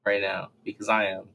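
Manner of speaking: drowsy, half-asleep voice; sleepy, drifting speech; nodding off. Real, not acted. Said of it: "I sound like I'm half asleep".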